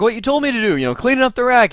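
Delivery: high-pitched mock protest; retold defensive protest. Technician explaining himself to his boss, high and defensive.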